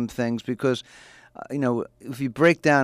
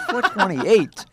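laughing, higher-pitched echo question; incredulous; 7 semitones higher, much slower than usual. Retold or imitated. Man questioning his friend's odd dinner time, incredulous. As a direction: throw the time back in disbelief.

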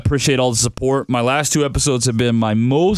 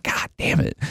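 under the breath god damn it; a whispered, defeated curse to himself; 5 dB quieter than usual. Retold or imitated. Host retelling his reaction to fans' texts, whispered curse. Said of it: "I'm like".

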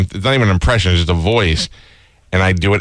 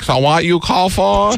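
much higher, slow mock voice; put-on answering voice; 11 semitones higher, slower than usual. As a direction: answer like a stranger. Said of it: "and I'm like".

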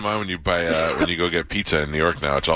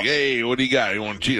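Guido accent imitation; 5 semitones higher than usual. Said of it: "they Guido it up".

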